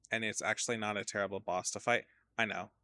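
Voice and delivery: talking through a yawn. Real, not acted. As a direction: yawn while speaking. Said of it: "I'm yawning".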